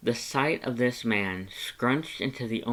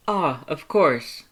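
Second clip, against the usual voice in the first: slow, high, louder knowing reply; Papyrus voice; 5 semitones higher, 6 dB louder, slower than usual. Acted. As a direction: stretch it out up high. Papyrus hears your name.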